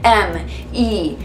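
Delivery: very slow, letter by letter; spelled out. Retold or imitated. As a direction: spell it with deliberate gaps between letters. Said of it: "even spelled it out".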